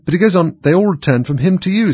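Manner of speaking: high, loud objection; excited. A narrator's reading. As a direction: jump in to object. Alice objects.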